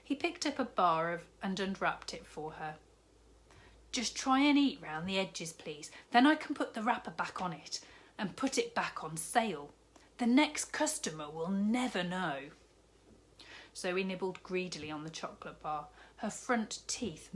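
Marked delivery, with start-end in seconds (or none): 3.9-12.5 a jolly newsagent, lightly voiced, cheerful; kindly shopkeeper. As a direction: play the big jolly shopkeeper, bargaining kindly. Raj figure voice.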